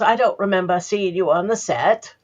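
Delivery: lightly voiced old Hollywood Hepburn accent; a touch of Hepburn's accent, retold; Katharine Hepburn accent. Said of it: "kudos to you on that accent".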